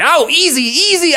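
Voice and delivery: high, wincing plea; pained protest. A narrator's reading. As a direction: beg him to go gently. Bear winces at the talons.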